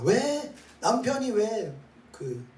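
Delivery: high-pitched, drawn-out mock objection; voicing an aggrieved objector; indignant protest. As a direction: protest with a loud, high "why". Acts out the flesh protesting.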